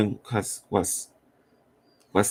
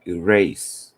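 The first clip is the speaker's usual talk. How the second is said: firm teacher command; 8 dB louder, much slower than usual. Retold or imitated. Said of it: "they tell you".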